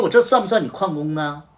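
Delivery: loud, high furious telling-off; retold angry shout at the staffer; angry scolding. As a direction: chew out the employee for leaving his post. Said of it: "我就直接骂了".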